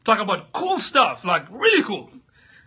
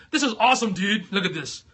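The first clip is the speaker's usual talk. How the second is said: mock voice. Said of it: "imagine me talking like this".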